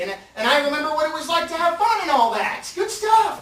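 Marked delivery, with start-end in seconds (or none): 2.7-3.4 cheering shout. Real, not acted. Cheering his own pitch.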